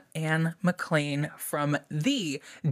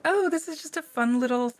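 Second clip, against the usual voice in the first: naive cheery voice; 2 semitones higher than usual. Retold or imitated. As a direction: sound blissfully unaware. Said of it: "it's like you think".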